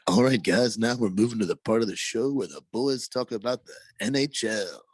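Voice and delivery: lightly hammed-up host intro; a hint of raspy announcer, drawing out the last letters; show announcer voice. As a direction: playfully announce the next segment. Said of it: "That was nice".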